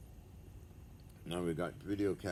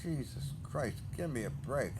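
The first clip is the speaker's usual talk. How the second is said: exasperated groan; 6 semitones higher than usual. Real, not acted. Reacting to shipping cost.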